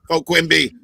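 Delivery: put-on Boston accent, Quimby for "Quimby"; Quimby in a thick Boston accent; Boston Quimby impression. Redoing Quimby for laughs, in a Boston accent. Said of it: "a Boston accent".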